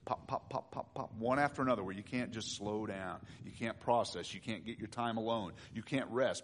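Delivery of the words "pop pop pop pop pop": breathy near-whispered pops, much softer; quiet pop pop pop. Acted. To the congregation about small troubles, hushed pops. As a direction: let each pop fall away almost voiceless.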